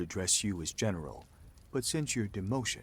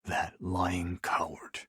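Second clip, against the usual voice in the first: low, slow growl under the breath; bitter seething; 4 semitones lower, much slower than usual. Acted. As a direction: seethe it slowly through gritted teeth. Learns who led the attack.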